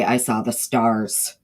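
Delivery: "stars" said with the R kept, slow and drawn out; slow Southern "starz" with a full R; own Southern accent. Shown as a demonstration. To the chat, contrasting how she says it herself, Southern drawl. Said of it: "I say".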